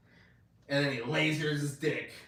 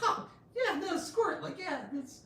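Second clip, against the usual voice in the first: laughing mockery. Mocking laughing Homelander quote.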